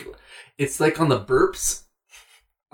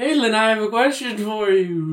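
ghostly voice; 6 semitones higher than usual. Pretend. Still playing Matt's ghost.

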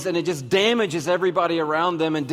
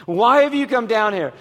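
sharper retold question; 3 semitones higher than usual. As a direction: let the tone turn on him. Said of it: "So all of a sudden the tone changes".

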